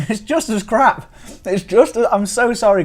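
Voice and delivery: high, loud words bursting through giggles; real, helpless amusement; giddy laughter. Real, not acted. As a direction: apologise while falling about laughing. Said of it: "I'm in a bit of a giddy mood".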